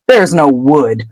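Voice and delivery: low, slow mocking repeat; deadpan drawn-out mockery; scornful quoting. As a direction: repeat a friend's excuse with disdain. Ron mocks the earlier panic.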